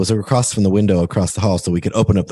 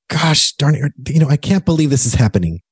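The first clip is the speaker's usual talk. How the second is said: mock frustration; 6 semitones higher than usual. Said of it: "instead of going".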